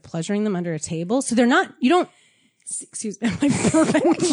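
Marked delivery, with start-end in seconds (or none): 2.6-4.3 hungover burp mid-word. Real, not acted. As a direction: talk through a burp. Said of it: "you're just burping and farting".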